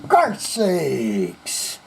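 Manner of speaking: mock a prim parent scolding bad manners; imitating stern parents. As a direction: parents scolding a child about the pinky. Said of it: "parents that said".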